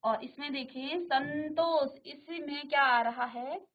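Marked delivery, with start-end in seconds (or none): 1.0-2.0 संतोष slow, with a clear n before तोष; slow demonstration. Shown as a demonstration. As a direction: sound the n in संतोष. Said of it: "आधा नौ का उच्चारण आप कर रहे हैं".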